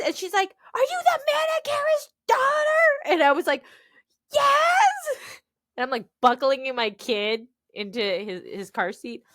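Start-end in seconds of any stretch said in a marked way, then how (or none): 0.7-3.1 high-pitched, loud fan shriek; imitated shouting. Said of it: "people just shouting in your general direction". 4.3-5.4 very high, loud squeal; imitated shouted reply. Retold reply to shouting stranger.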